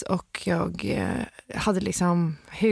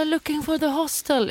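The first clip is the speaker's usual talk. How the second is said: mock confused intruder; 10 semitones higher than usual. Quoted intruder excuse.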